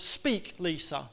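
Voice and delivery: soft, falling, gentle command; quiet, tender call to speak; God's quiet word. Retold or imitated. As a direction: speak it softly as a divine call. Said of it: "the word that I felt God say".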